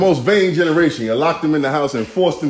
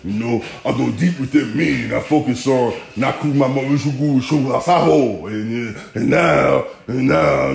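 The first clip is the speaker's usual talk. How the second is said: half-hearted mock of a zoned-out guru type; mock spacey meditator; 2 semitones lower than usual. A friend who wants to meditate it away, mocked dreamily. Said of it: "he just thought".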